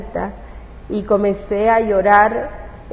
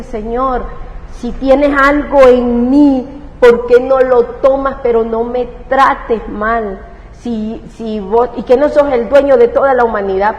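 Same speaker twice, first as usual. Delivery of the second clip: crying shout at God; 2 semitones higher, 4 dB louder than usual. Retold or imitated. Mother shouting to God while crying, desperate. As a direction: demand answers from heaven through sobs. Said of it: "gritaba a Dios y a todo esto yo lloraba".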